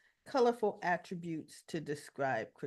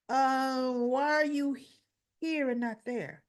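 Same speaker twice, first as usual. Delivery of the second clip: higher, drawn-up confronting question; pointed questioning; 5 semitones higher, 3 dB louder, slower than usual. Retold or imitated. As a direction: press for an answer, voicing the character. Stella confronts T J about trial.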